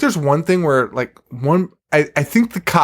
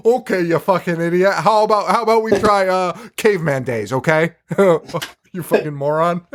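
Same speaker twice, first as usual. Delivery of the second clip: mock condescending occultist, pitched higher; talking down; 4 semitones higher than usual. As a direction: lecture her like a fool, exasperated. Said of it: "He talks down to her so badly".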